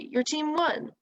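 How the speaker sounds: a bright, high cheer; excited cry. A narrator's reading. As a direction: call it out as a happy shout. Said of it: "someone cry".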